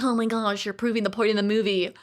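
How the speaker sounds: other people voice. Retold or imitated. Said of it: "other people voices".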